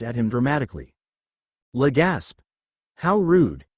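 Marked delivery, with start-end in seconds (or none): 1.7-3.7 hammed-up offended villain; dramatic gasp. A narrator's reading. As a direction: play the outrage theatrically. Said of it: "dramatically gasped".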